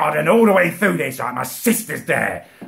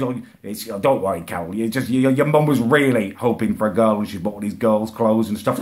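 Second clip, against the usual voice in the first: calm him down gently; calm reassuring dad; 6 semitones lower than usual. Retold or imitated. Dad explains calmly.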